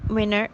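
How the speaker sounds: "winner" for winter, the T after N left out; omitted T. Shown as a demonstration. Lecturer showing some American varieties, T omitted. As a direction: drop the T so it sounds like "winner". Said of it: "is not pronounced in some varieties of G A".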